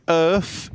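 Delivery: "earth" with F for TH; "earth" pronounced U-R-F, British style; earth as "urf". Shown as a demonstration. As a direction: say "earth" ending in an F. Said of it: "is pronounced U R F".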